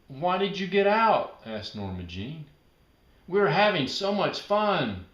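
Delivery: lightly voiced little girl asking; eager child.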